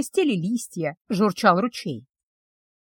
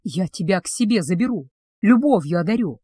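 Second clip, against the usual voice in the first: lovesick betrothed; 3 semitones lower than usual. Acted. Betrothed confesses his love to the witch, low and tender. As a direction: lower male voice, tender.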